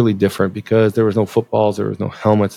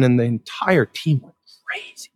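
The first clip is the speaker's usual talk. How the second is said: hushed; 3 dB quieter than usual. A narrator's reading. Hushed build to climax.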